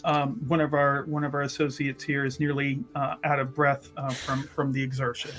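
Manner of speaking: smooth it over quietly for the guest; composed cover-up. Acted. Aiden covers smoothly for winded associate.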